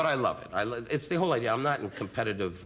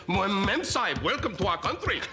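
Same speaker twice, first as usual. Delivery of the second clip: higher mock Indian accent; a put-on Indian English welcome, higher; 7 semitones higher than usual. Comedian mimics a turbaned greeter in a mock Indian accent. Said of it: "they all got turbans on their head".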